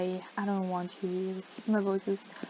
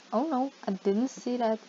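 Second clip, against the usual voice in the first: feigned apology. Pretend. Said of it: "I'm just gonna be like".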